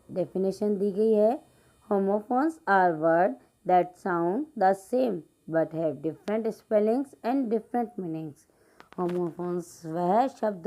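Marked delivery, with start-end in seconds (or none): 1.9-8.5 slow, careful classroom reading; slow read-aloud. Acted. Teacher reading an English example sentence slowly to pupils.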